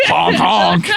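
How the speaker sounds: playful spoken clown honk; clown honks and squeaks. Acted. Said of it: "mocking the clown's family".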